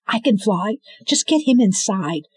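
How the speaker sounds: put-on girl telling him to hurry; urgent retort. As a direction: cut him off and push on. Girl replying.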